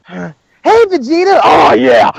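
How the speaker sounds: hammed-up call, then booming approval; Goku. Bulma made to talk like Goku, hammed-up impression. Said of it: "'Hey, hey, Vegeta,' just like Goku".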